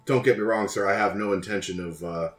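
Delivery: polite, measured fixer voice; smooth courteous schemer. Acted. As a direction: speak like a sly, courteous broker. Alistair speaks in character.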